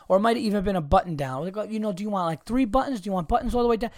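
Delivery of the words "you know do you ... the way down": higher, quick, overeager shop clerk; imitating the salesman helping Bill Burr, eager. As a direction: rattle off options like a proud salesman.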